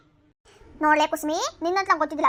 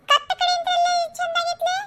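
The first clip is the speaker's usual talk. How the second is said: scoffing; 8 semitones higher than usual. Acted. Friend scoffs at the braid.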